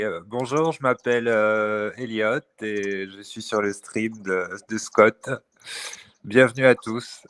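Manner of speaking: en français, doucement; speaking French on request. Shown as a demonstration. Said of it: "speak some French to people".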